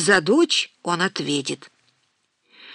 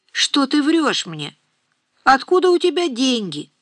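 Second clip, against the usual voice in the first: angry; 6 semitones higher than usual. A narrator's reading. Mother confronts daughter about money.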